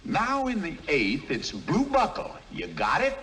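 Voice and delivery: loud and high. Acted. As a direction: call it out. Mule suddenly louder.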